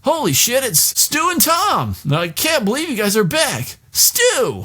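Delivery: put-on overjoyed to see old friends; high, stretched-out cheering; excited guard. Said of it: "we get some top-notch, uh, Stephen King acting".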